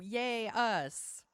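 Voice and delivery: a smug mock yay; mock cheer. Mocking voters cheering themselves, hammed-up. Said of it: "is kinda how it felt to me".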